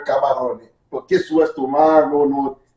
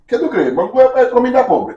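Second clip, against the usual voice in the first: incredulous; 9 semitones higher, 4 dB louder than usual. Real, not acted. Incredulous challenge in food argument.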